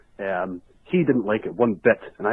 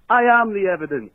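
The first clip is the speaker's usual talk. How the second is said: mock Trump boast, higher and louder; Trump quote; 9 semitones higher, 4 dB louder than usual. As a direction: puff up like Trump. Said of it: "he said".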